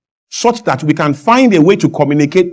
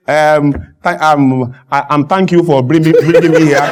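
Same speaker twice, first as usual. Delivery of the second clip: mock tongue-tied false starts; acted stumbling speech; 3 semitones lower than usual. Guest fumbling thanks on the show, acted halting. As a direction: fumble through a thank-you with ums. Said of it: "if I get here and I say".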